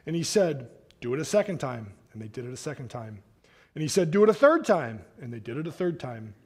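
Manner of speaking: steady, measured reading of a Bible passage; scripture reading. Acted. Preacher reading Elijah's story from scripture, measured. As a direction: read the passage out to the congregation.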